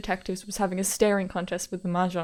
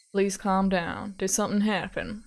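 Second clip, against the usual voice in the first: slow, measured reassurance; steady the caller, drawing words out; calming detective. Acted. Detective to panicking caller on payphone, slowly calming.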